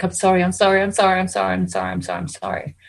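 pleading that fades from normal voice down to a whisper; a desperate apology that dies away to nothing; frightened pleading. Acted. Terrified horse pleading, voiced.

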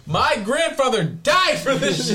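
high laughing mock tribute. Real, not acted. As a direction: laugh it out, slow.

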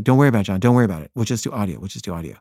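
calm him down, easing off by the end; retold reassurance. Filmmaker settles stressed-out John, placating. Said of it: "this is really stressing him out".

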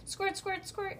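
high, giddy squirt sounds; playful squirt noises. Acted. Girl squirting her dolls with pretend seltzer, high. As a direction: keep squirting the toys. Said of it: "I said again".

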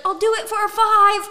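loud, high retold shout; calling after someone. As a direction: call out a last offer as she walks away. Man calls after her leaving.

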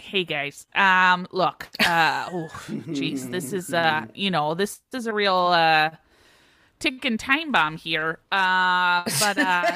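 put-on hesitant man with a light Minnesota accent. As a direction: play it Minnesotan, stumbling through the fillers. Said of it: "I have to do a Minnesota accent".

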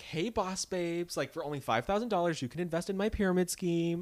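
a hint of a peppy pyramid scheme pitch; mock MLM mom. Mocking a busy mom's Facebook sales post, light peppy pitch.

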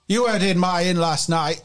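high, forceful challenge to the guard; angry accusation. Acted. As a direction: confront him, pitch jumping then dropping. Bartender confronts the guard in anger.

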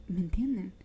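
hushed question to viewers; whispered aside. Real, not acted. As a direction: whisper it to them. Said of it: "unvoiced whisper".

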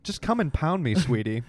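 put-on horny New York woman; sex accent. Playing a Sex and the City woman, mock-sultry. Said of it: "It's the sex accent".

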